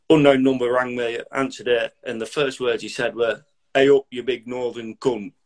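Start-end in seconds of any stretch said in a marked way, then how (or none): 3.7-5.3 a mildly hammed-up broad northern English greeting; exaggerated northern accent. Old mate on the phone, mock northern accent. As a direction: lay the northern accent on thick, lightly. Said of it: "An emphasised northern accent".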